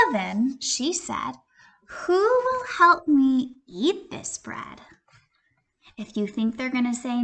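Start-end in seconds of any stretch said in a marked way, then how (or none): 1.9-4.8 high, slow, sing-song; sweet hen question. Acted. Hen to friends, high sweet question. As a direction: ask sweetly, a little sly.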